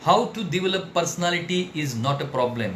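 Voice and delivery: very slow, every word weighted; slow emphatic. Shown as a demonstration. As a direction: drive the maxim home slowly. (बहुत धीमे, ज़ोर देकर)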